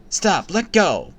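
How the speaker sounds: high, loud panicked cry; screaming. A narrator's reading. Sister screaming at the boy gripping her shoulders. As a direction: shake him off. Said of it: "my sister screamed".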